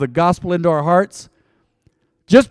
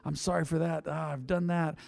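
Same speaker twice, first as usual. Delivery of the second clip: much softer, hushed confession; leaning in to whisper; 8 dB quieter than usual. Shown as a demonstration. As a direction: drop to a near whisper. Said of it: "Go ahead and whisper to him".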